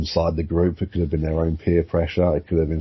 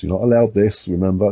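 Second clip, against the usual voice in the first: scolding elder; 3 semitones higher, 4 dB louder than usual. Acted. Elders scolding the peasants, acted.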